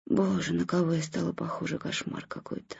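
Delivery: breathy, unvoiced whisper to herself. A narrator's reading. Wife whispers in dismay at her body in the mirror. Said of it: "шептала она".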